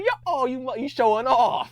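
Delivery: high, loud, laughing jab; laughing high-pitched mock outrage; mock offended laugh. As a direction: tease him through laughter. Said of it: "I was like".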